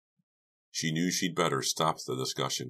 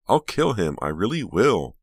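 loud, high outburst, swooping down; tight, trembling cry; 7 semitones higher, 8 dB louder than usual. A narrator's reading. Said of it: "cried in a tight, trembling voice".

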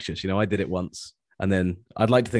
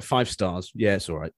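understated British; 3 dB quieter, slower than usual. Retold or imitated. Podcast host imitating a British listener's review, understated. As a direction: play down the praise, barely impressed. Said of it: "That was very British".

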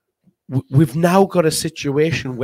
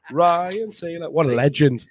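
pillow voice; 6 dB quieter than usual. Acted. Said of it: "that was your pillow voice".

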